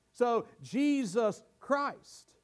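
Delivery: Jesus said slowly and leaned on first; stress on Jesus. Shown as a demonstration. Pastor showing the word order to the church, Jesus stressed slowly. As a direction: weigh down Jesus, let Christ trail. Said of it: "the name Jesus is emphatic by reason".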